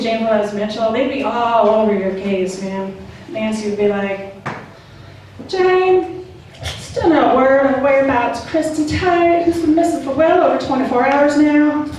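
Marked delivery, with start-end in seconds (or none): 5.5-11.9 lightly voiced talk-show anchor addressing her co-host. Host Nancy to co-host Jane on air, lightly put-on TV voice. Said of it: "that's also my Doctor Phil voice".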